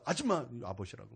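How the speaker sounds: mock scolding, rising to a shout at the end; retold angry outburst. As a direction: replay the rant at the parking lady. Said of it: "분노가 팍 표출되면서".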